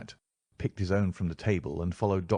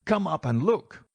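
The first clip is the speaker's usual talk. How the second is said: high, louder panicked call within a retold tale; frightened yell; 9 semitones higher, 4 dB louder than usual. A narrator's reading. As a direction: shout it up the stairs in terror. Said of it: "he yelled".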